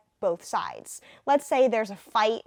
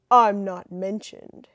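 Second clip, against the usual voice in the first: slow, lightly nerdy Clark; a hint of a nerdy reporter; 3 semitones lower, 6 dB louder, slower than usual. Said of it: "Clark's gonna have a nerdy voice".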